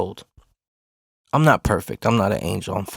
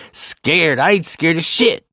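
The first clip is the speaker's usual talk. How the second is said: high, raised-voice denial; indignant retort, pitched up; retold defiant yell; 7 semitones higher, 3 dB louder, slower than usual. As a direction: bristle back at being called scared. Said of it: "I'm not yelling anymore".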